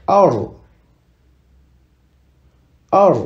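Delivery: Ar ending in a trilled R; Arabic ra with sukun, rolled. Shown as a demonstration. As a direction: roll the R hard at the end of Ar. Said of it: "Ici, on roule le R".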